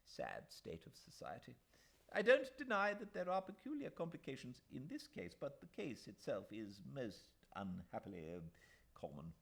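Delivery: put-on a pompous old solicitor reassuring; old lawyer.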